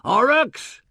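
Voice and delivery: a big, high bellow through the door crack; shouting for the secretary through a crack; bawling. Acted. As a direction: bawl the name out at full force. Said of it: "and bawled".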